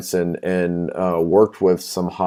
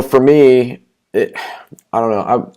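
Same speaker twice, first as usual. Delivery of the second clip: ordinary talk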